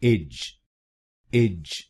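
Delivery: एज said as a short ij sound; short unstressed ij; second syllable. Shown as a demonstration. Teacher drilling the second syllable. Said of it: "दूसरे शब्दांश को ... बोलिए".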